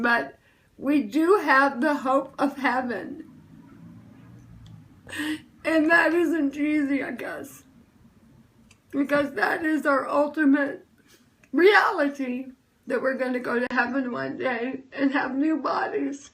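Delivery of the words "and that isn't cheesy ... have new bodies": real tears breaking into the voice, last aside whispered; choked up. Real, not acted. Telling livestream viewers about heaven, choked up with tears. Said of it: "sorry I'm so emotional".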